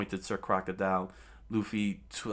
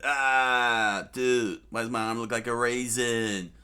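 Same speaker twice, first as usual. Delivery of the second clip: mock scream; 3 semitones higher, 6 dB louder than usual. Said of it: "that's when he screamed".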